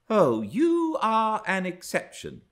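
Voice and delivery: high, haughty put-down; scornful retort. A narrator's reading. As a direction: dismiss him with mock concession. She sneers back at Earnshaw.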